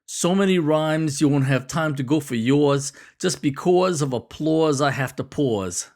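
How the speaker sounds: rhythmic rap lines in a New York accent; old-school New York accent. Shown as a demonstration. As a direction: lean into New York vowels on the rhymes. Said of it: "say it in a New York accent".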